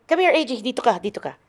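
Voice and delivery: high-pitched coaxing call. Real, not acted. Parent calling child over on set.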